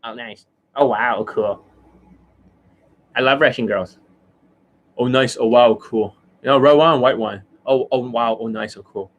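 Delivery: mocking imitation of an over-impressed coach; Justin Wayne. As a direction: lightly parody a coach gushing his approval. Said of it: "that is the Justin Wayne".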